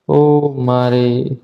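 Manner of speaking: read-aloud cry. Acted. Young wife crying out as her husband falls, slow understated cry. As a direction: stretch the cry out slowly, understated. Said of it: "વહુએ જોરથી બૂમ મારી".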